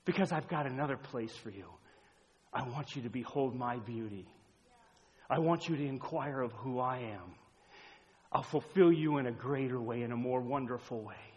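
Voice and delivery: gentle, softened and unhurried after the shouting; tender invitation. Acted. God inviting a person to behold his beauty, tender.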